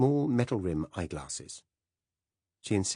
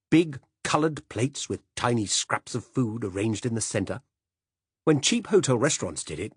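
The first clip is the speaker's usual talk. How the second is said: louder, higher blustering tirade; passionate rant; 4 semitones higher, 4 dB louder than usual. Acted. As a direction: hold forth like an outraged old gourmand. Silas's passionate address on food.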